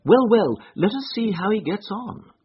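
imperturbable. A narrator's reading. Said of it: "said my friend imperturbably".

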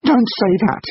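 high-pitched, shocked plea; strained cry of dismay; shocked gasp. A narrator's reading. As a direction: gasp it in horror. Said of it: "gasped Tessa".

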